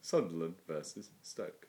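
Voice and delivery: slow monotone results read; robot voice. Retold or imitated. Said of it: "do your Alan Lambourne impression".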